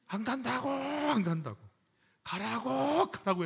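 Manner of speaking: high, whiny complaint to God; Moses complaining. Acted. Preacher voicing Moses, whining at God. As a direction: whine it like a fed-up Moses.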